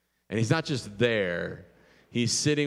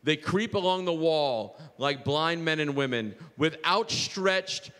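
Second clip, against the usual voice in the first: poem reading; 3 semitones higher than usual. Real, not acted. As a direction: let each image land as you read. Reads a poem aloud.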